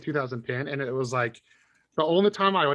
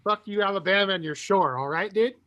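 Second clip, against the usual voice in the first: put-on California surfer accent; 4 semitones higher than usual. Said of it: "you have a California accent".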